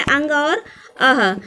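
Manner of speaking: "अंग और अह" said slowly, each sound held; careful slow demo. Shown as a demonstration. Teacher showing the two added vowels, slowly. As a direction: say "अंग और अह" slowly so students hear both. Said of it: "दो और स्वर हैं जो बाद में जोड़ी गई हैं".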